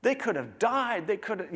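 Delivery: rising excitement, pitch climbing high; passionate historian. Retold or imitated. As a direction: gush about the Revolution's stakes. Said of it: "a historian who was very passionate".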